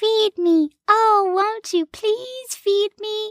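put-on teensy, very high, squeaky little animal voice. A character says their growling tummy sounds like a hedgehog: teensy tiny hedgehog voice. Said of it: "sounds like a teensy tiny hedgehog saying".

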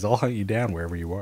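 casual, offhand menace, said lightly. Telling the guests it depends on them: casually said threat. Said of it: "you said it so casually".

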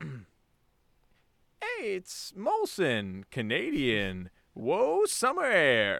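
very slow, drawn-out, swooping caterpillar voice. Reading an ad line after agreeing on a caterpillar type voice: caterpillar voice. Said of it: "and a caterpillar type voice".

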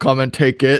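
ordinary talk, nothing marked

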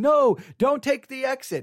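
half-hearted mild yell. Retelling how everyone in the car reacted: imitating people screaming. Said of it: "everybody was screaming".

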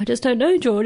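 put-on tearful, crying voice. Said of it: "I started crying".

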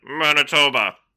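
loud, robotic talking-globe voice. Recalling a childhood talking globe that named places, robot voice. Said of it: "this robot voice. It was like".

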